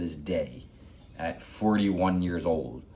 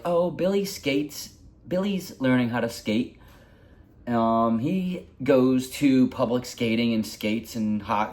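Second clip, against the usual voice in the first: lightly voiced boastful relatives, higher and slow at first; mock bragging; 4 semitones higher than usual. Step family bragging about their boys at the pool, mock boastful. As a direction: imitate their smug showing-off. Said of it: "bragging about this".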